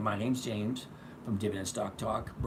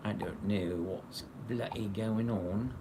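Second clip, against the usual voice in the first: slow put-on English accent; slower than usual. Streamer puzzled by the livestream setup, mock English accent. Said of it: "I always get that English accent".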